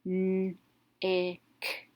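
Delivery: N, I, K as separate letter sounds, short vowel; phonics-style N, short I, K; sounded out. Shown as a demonstration. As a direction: sound out N, I, K slowly, holding the N. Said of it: "going to make a short vowel sound".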